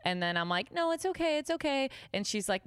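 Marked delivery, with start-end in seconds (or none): 0.7-1.9 very high, anxious reassurance; near-tears pleading. Retold or imitated. Waitress begging customer not to intervene, retold anxious pleading. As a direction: plead in a small high voice, imitated. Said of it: "literally on the verge of tears".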